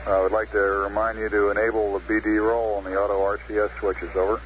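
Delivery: thin radio voice over static; astronaut radio. Real, not acted. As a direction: speak as if through a radio link. Capcom instructions over radio.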